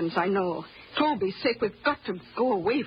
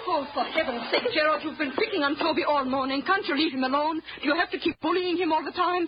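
higher-pitched, fed-up scolding; exasperated scolding; 6 semitones higher than usual. Acted.

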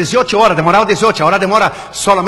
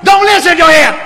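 loud, high imitated begging; hammed-up desperate cry; frantic pleading; 7 semitones higher, 4 dB louder, slower than usual. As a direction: plead at the top of the voice, mimicking panic. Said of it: "Él decía".

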